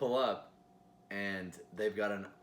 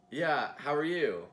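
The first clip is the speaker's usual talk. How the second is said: casual customer voice; 5 semitones higher, 5 dB louder, slower than usual. Retold or imitated. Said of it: "But then I go".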